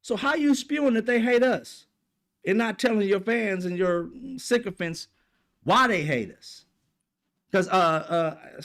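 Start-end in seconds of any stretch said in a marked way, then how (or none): 0.0-6.7 higher, mocking sing-song, calling out a host's hypocrisy; sarcastic needling, voice pitched way up; sarcastic inner voice. Vlogger mocking a TV host about his history, sarcastic sing-song. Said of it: "I'm sitting there like".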